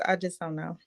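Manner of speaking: a soft unvoiced aside; whisper. Real, not acted. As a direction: whisper it like a secret. Aside, shrugging it off.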